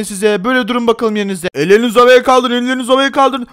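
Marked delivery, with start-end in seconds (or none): 1.5-3.5 commanding shout. Acted. Robber ordering hands up.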